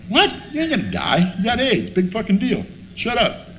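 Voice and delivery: mock brush-off, pitch jumping up; incredulous dismissal. Pal refuses his sick friend's news, incredulous dismissal.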